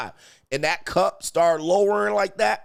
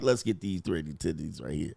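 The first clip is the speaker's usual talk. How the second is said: much lower and softer; mock intimate murmur; 11 semitones lower, 7 dB quieter than usual. Man talking himself into it with his date, low mock murmur. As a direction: drop it low, as a private aside.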